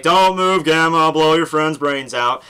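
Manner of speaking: retold gunman threat. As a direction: act out an armed warning, drawn out.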